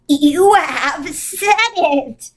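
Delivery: slow, ringing proclamation. Acted. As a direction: ring it out slowly. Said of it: "voice rang out".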